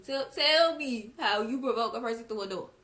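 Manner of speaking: loud, exasperated challenge; fed-up, emphatic questioning; indignant demand. Real, not acted. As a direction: demand an answer, punching it out loudly. Indignantly demanding an answer about mother's remark.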